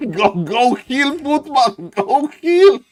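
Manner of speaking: high, pleading urging; cheering on. Real, not acted. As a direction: egg the unit on. Urging the footman on.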